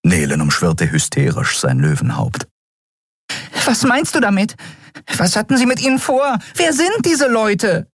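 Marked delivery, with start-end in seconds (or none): 3.6-7.9 high, hysterical little fairy voice; tiny fairy voice. A narrator's reading. Tiny Nelen pressing Keru for answers, high and frantic. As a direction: flutter the questions out, high and frantic.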